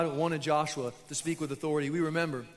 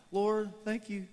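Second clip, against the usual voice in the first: mildly mock afterthought mealtime prayer; hesitant, halting pretend grace with pauses; awkward prayer. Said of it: "awkward prayers".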